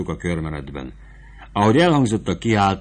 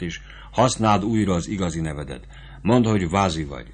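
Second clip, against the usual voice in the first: lightly voiced sutler woman, urgent and motherly; sutler woman advising. Sutler woman urges young Fabrizio to flee, lightly urgent voice. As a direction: press the advice on him, fast and eager.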